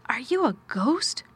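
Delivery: mildly spooked, voice rising at the end; half-frightened. A narrator's reading. Boy asking if the stranger is a ghost, half-frightened. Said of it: "in a half-frightened whisper".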